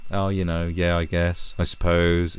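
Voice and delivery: imitating an indifferent young interviewee; mildly mocking nonchalance; blasé. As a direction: shrug the words off, lightly mimicked. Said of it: "all this sort of blasé".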